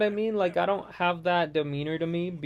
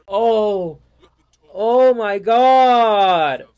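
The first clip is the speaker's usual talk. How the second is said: drawn-out groan; 2 semitones higher, 10 dB louder, much slower than usual. Real, not acted.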